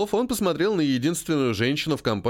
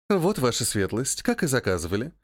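a touch of cutesy charm; sweet voice; 2 semitones lower than usual. Acted. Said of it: "милым голосом сказала она". (милым голоском)

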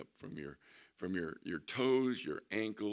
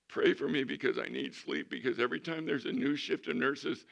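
comic complaint; 5 semitones higher than usual. Retold or imitated. Mom's comic complaint, acted.

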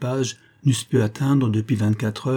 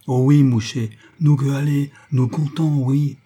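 réponse créole enthousiaste, plus forte et plus haute; s'exclamer content en parler créole; joie créole; 4 semitones higher, 4 dB louder than usual. Acted. Creole companion eager reply. (le compagnon créole répond au père, ravi, plus fort et plus haut)

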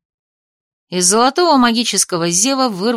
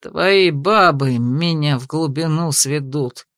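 low, slow, grumbling through teeth; muttered through teeth; 6 semitones lower, slower than usual. A narrator's reading. Investigator grumbles at Ardan about his women, low. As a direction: grind it out in irritation. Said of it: "процедил Энбит".

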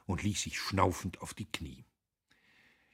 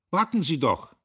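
laut und hoch hinterhergerufen; nachgerufen; 10 semitones higher, 11 dB louder than usual. A narrator's reading. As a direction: ihr über die Distanz nachrufen. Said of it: "rief er ihr nach". (lauter Ruf hinter ihr her)

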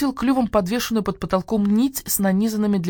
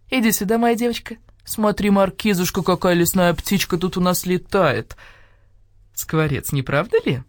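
sugary sweet voice. Acted. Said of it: "Голос Нины Павловны стал сладким".

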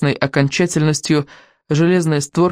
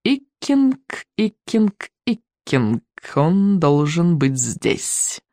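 hissing dragon voices; much slower than usual. Acted. Dragon heads hiss the name.

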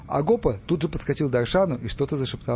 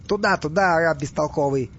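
higher, louder irritated confirmation; impatient; 3 semitones higher, 4 dB louder than usual. Acted. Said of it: "нетерпеливо похлопал себя". (нетерпеливо, с раздражением)

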